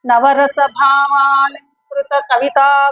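slow, measured chanting of the verse; poem recitation. Shown as a demonstration. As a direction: recite the poem slowly like a teacher. (నెమ్మదిగా పద్య పఠనం)

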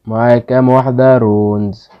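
slow, drawn-out repeat of رونز question; pondering it aloud, slowly. Shown as a demonstration. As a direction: stretch out كام واحدة رونز slowly. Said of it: "repeated slowly".

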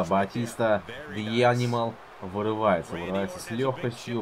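play-by-play announcer voice; wrestling commentator. Acted. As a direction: call the match like TV commentary.

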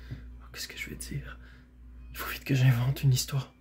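hushed, half-whispered thought; worried inner thought. Acted. Shasta thinking up a story, hushed and worried. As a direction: think aloud under your breath.

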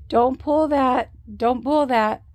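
a stern recorded voice over a speaker; camera voice warning. Retold or imitated. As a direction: bark it like a robot alarm.

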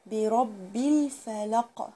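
الفلق with a clear, sounded لام, very slow; slow model recitation; clear lam. Shown as a demonstration.

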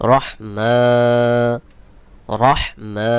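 রহমা with the final মা held long; lengthened vowel. Shown as a demonstration. Teacher shows learners the one-alif stretch, final মা of রহমা held. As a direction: say রহ firmly, then stretch মা. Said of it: "খাড়া জবর থাকলে এক আলিফ টান দিয়ে পড়তে হবে".

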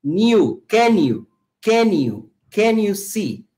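"can you" linked into "ken-iu", the N joined to you; linking words. Shown as a demonstration. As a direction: run "can you" together so it sounds like "new". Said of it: "yo la uno a you".

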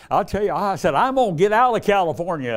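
high, loud retelling of a widow's troubles; voicing the grieving widow. Preacher retelling a new widow's woes, high and loud. Woman telling her plan.

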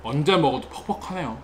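speaking while still chewing; words through a mouthful of chicken; talking after a bite. Real, not acted. Seen 1: Bites chicken at -2 to -1, then speaks with mouth still working.

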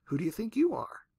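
unvoiced fading whisper of the echo. Shown as a demonstration. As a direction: breathe it like the echo dying away. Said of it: "what would it sound like if that were to echo".

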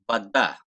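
"Vada" as va-DAA, last a long and loud; stress on the final a. Shown as a demonstration. Teacher showing stress at the end of the word. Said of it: "A'nın üzerinde vurgu var".

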